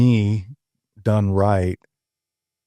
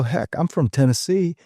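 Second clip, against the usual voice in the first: excited; 8 semitones higher than usual. Retold or imitated. Retold boast to the kid.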